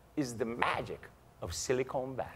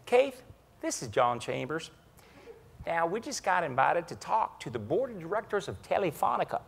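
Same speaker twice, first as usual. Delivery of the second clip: Chambers imitation; 2 semitones higher than usual. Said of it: "he does a good Chambers imitation".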